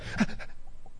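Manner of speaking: breathy mock sob, quiet; imitated sobbing. Speaker mimicking a recovering addict suddenly breaking down, mock sobbing. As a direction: imitate a man breaking into sobs. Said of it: "what are you crying about".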